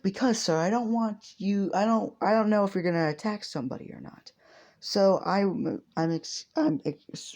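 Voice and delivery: hero voice. Acted. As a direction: play the earnest hero warning a suspect. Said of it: "I'm trying to voice act properly".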